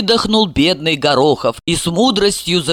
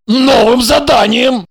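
dry answer; 5 semitones higher, 5 dB louder than usual. Acted.

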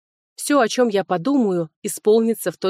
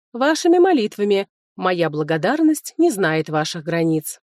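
sweetly mocking. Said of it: "мило улыбнулась дракону".

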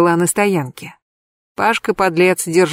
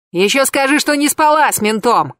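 an angry high-pitched shout; yelling; 7 semitones higher than usual. A narrator's reading. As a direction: shout the accusation at her. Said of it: "заорал он".

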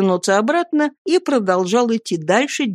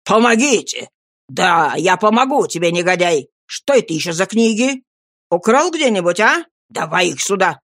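mocking thug. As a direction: taunt then grab. Sikes mocks and robs Oliver.

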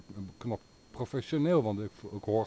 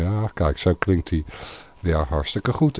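loud, lower voice right up on the microphone; close to the mic; 4 semitones lower, 6 dB louder than usual. Shown as a demonstration. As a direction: demonstrate the sound up close to the mic. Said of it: "dichtbij zit en ik zet". (dicht op de microfoon pratend)

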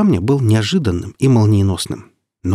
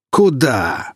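higher, mildly shouted check; scolding shout; 4 semitones higher than usual. A narrator's reading. Warrior stopping a squirming patient, scolding shout. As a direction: check him with a raised voice. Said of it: "прикрикнул на него Вульфер".

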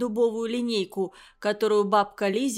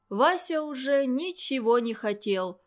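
ordinary delivery

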